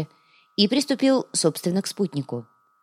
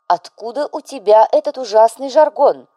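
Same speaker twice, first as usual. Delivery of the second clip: cold strong voice; 6 semitones higher, 6 dB louder than usual. A narrator's reading. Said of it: "Холодным, как виски со льдом".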